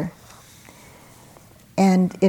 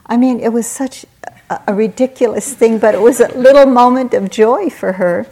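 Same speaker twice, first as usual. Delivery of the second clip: amused laughing delivery; 5 semitones higher, 9 dB louder than usual. Real, not acted. Delighted at a funny memory.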